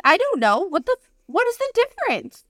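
put-on flustered kid. Overwhelmed kid in pad aisle.

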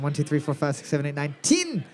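mock Aussie counting, a punchline on "Ten"; Australian accent. Shown as a demonstration. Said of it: "in Australian".

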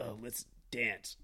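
lightly voiced creep asking to dance; a hint of a sleazy invite; mock seductive. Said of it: "he's just like".

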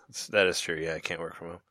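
soft unvoiced whisper. Real, not acted. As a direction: breathe it out in a whisper. Whispered aside.

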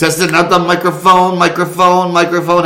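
high, loud, slow mock announcer; sing-song it up high; goofy high voice. Goofy mic check voice.

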